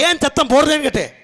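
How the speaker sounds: slightly hectoring demand; mildly intimidating. Acted. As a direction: press the question, a touch bullying. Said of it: "இந்த அரட்டக்கூடாது என்கிட்ட".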